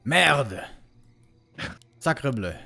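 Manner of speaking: mock French exclamation; exaggerated French curse; French accent. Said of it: "what do you think Todd reaction would be".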